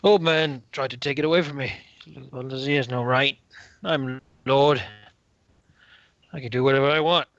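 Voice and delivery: petulant tipsy noble, halting phrases; drunken lord. Acted. Drunken lord insists on his rights to the envoy, petulant and tipsy. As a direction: assert your rank like a sulky drunk.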